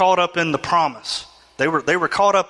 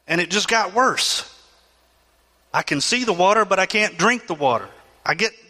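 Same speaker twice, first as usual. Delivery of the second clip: a touch higher, frustrated grumble; lightly voiced complainer; 4 semitones higher than usual. Preacher voicing the disappointed people, mild frustrated grumble. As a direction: sulk that the water is undrinkable.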